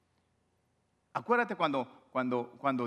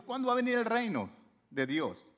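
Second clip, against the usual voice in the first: eager question; 7 semitones higher than usual. Retold or imitated. Pharisees asking Jesus eagerly.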